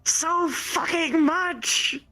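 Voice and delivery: high, loud gushing; excited squealing. Real, not acted. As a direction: squeal over the feathers. Excited over the feathers.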